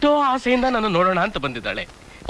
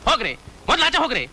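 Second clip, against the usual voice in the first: angry; 5 semitones higher than usual. Acted. Man throws out intruders.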